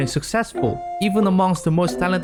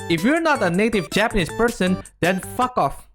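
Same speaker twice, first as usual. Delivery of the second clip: rude; 3 semitones higher than usual. Shown as a demonstration. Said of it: "Let me repeat that again a bit nicer".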